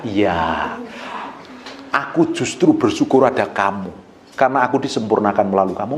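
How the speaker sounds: low, softened reassurance; calm acted gratitude; humble, tender husband. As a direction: answer the complaint gently and low. Models a husband's humble, appreciative reply.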